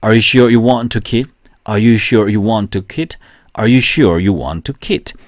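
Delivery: very slow, each word spaced for repeating; deliberate slow model sentence, question lifted at the end; slow drill reading. Shown as a demonstration. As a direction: read it slowly so students can follow. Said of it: "세 번, 세 번 읽을게요".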